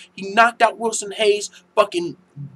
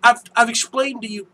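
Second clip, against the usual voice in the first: retold exasperated retort; 4 semitones higher, 4 dB louder than usual. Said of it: "I was like".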